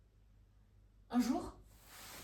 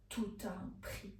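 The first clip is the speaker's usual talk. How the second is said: low, very soft reply; muted retort; 5 semitones lower, 12 dB quieter than usual. A narrator's reading. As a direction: murmur it low under the breath. Woman's muted attempted reply. (réplique basse, à mi-voix)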